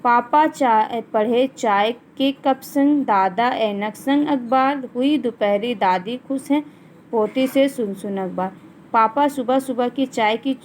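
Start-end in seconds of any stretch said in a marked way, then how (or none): 0.0-8.5 teacher's deliberate poem reading; poem recitation. Acted. Reads the poem aloud.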